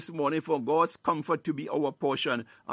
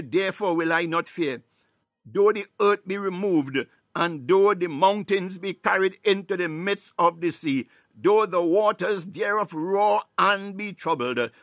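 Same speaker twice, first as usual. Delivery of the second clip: declaimed scripture; 4 dB louder than usual. Acted. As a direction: declare each clause with conviction. Declaims psalm for listeners to repeat.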